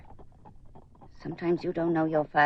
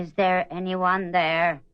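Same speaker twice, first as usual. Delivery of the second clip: louder slow call; 4 dB louder, slower than usual. Acted. Second call, stronger.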